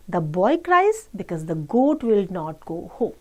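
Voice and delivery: slow, measured English read-aloud; children's story reading. Acted. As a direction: read slowly to children, word by word. Reads English story slowly to children. (बच्चों को धीरे-धीरे कहानी पढ़कर सुनाना)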